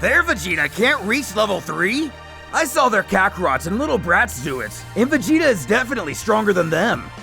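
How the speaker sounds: high-pitched onlooker voice; puzzled spectator character. Acted. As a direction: speak up high, questioning the fighter. Spectator character questions the fight.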